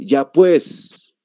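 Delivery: firm La Paz "ya pues" with a clear final S; demonstrated La Paz way of speaking; La Paz accent. Shown as a demonstration. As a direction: say it like a paceño, sounding the S in "pues". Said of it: "el paseño siempre dice".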